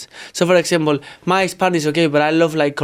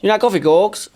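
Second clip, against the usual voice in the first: put-on "coffee" copied in her English accent, pitched up; mock English accent; 5 semitones higher than usual. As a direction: parrot her English line. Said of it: "Can you say".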